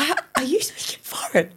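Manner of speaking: hushed, whispered mock disbelief; retold incredulity. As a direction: whisper it, stumbling on the first word. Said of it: "I was like".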